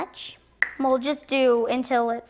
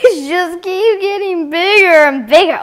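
amazed; 4 semitones higher, 6 dB louder than usual. Real, not acted. Balloon keeps growing.

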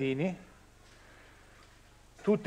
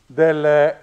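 face mask; 4 dB louder than usual. Real, not acted. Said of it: "faccio molta fatica a parlare con la mascherina".

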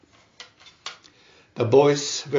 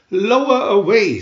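loud, higher pirate command; barked pirate order; 5 semitones higher, 5 dB louder than usual. Acted. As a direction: call it out like a captain. Hook's order.

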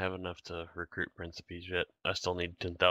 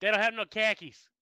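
imitated Southern accent; 13 semitones higher than usual. Retelling the store joke, higher mock Southern accent. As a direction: play a hick in a Southern accent. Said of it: "what accent was that".

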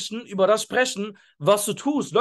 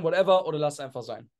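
offhand shrug; 4 semitones lower than usual. Shown as a demonstration. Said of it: "ihr habt ja meine Betonung gemerkt".

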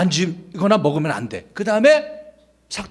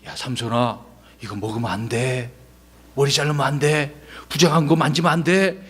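lower, stern parental warning; parents warning; 4 semitones lower than usual. Retold or imitated. Parents cautioning Samson, stern low warning. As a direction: scold him like a worried parent. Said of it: "부모님은".

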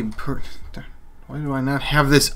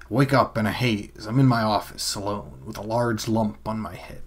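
noir detective. Shown as a demonstration. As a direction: growl it like a tired private eye. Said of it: "I don't really know a noir, film noir voice".

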